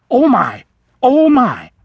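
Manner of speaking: put-on high, loud, flustered old vole; flustered exclamation. A narrator's reading. Elderly vole bumping into a stranger, flustered and high. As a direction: blurt it out, startled and embarrassed. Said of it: "the vole exclaimed, flustered and embarrassed".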